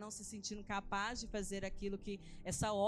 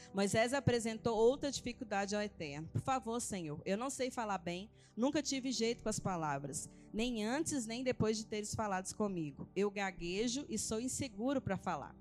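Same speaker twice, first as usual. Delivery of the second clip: lightly emphatic Bible reading, phrase by phrase; scripture reading aloud. Acted. Woman reading Moses' exchange with God to church, scripture reading. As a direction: read the verses out to the congregation with a little more force.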